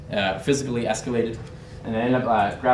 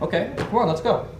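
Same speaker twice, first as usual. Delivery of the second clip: raised pitch at ordinary volume; retold acceptance; 9 semitones higher than usual. Narrator answering the shouting Brit, higher but not shouting. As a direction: agree to fight without shouting. His own reply accepting the fight.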